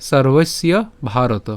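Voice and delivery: measured Sanskrit verse in short phrases; deliberate model reading of the verse; joined recitation. Shown as a demonstration. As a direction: recite each word whole, with pauses between phrases. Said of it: "আমরা একসাথে উচ্চারণটা করব".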